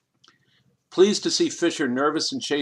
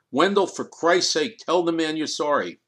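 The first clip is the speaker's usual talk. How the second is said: exasperated; 4 semitones higher, 4 dB louder than usual. Acted. Lawyer urges Wendell.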